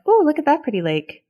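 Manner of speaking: high delighted ooh, repeated; mock delighted. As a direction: gush over each lake like a kid. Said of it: "I kept saying, like".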